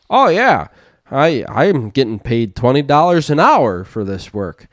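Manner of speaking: loud, high teasing jab; teasing dad. Retold or imitated. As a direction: needle your son with a joke. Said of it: "tried to make a joke ... saying, like".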